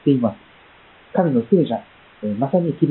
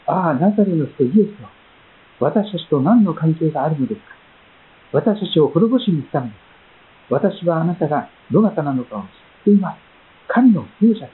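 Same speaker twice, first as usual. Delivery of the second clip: a hint of a frightened demon crying to Jesus; preacher reading the demon's cry to Jesus; 3 semitones higher than usual. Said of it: "その中にいた悪霊が叫んだわけです".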